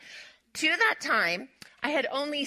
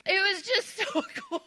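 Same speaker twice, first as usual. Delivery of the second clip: high, choked-up happy laugh; moved, voice lifting high into a laugh; emotional; 10 semitones higher than usual. Real, not acted. Telling the church about the waiter's kindness, emotional. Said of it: "it makes me emotional now".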